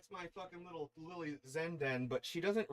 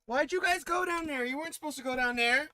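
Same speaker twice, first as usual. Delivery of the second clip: loud scolding of naughty pets; scolding yell; 12 semitones higher, 10 dB louder than usual. Real, not acted. Scolding the cats at a yell for going down there. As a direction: call them out loudly, annoyed.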